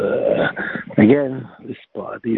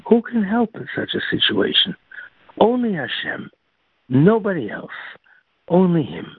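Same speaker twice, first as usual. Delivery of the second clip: fervent preaching; 9 semitones higher than usual. Acted. Preacher's fervent rhetorical climax.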